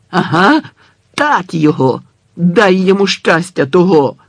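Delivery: gleeful crowd. Acted. The crowd urges the old man on, loud and fierce. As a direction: egg them on with fury.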